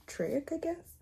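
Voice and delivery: breathy whispered trail-off; whispering. Real, not acted. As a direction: drop to a whisper. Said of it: "If I talk a little soft".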